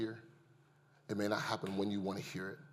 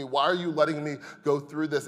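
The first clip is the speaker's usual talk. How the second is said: yelling at God; 4 semitones higher, 7 dB louder than usual. Retold or imitated. Grieving father yelling at God in his backyard, anguished shout. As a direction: cry out to God, louder and higher. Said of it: "I am yelling at God in my backyard".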